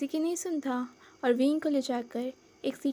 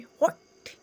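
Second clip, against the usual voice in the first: shocked what; 4 dB louder, much slower than usual. A narrator's reading. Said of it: "shock से open होते है".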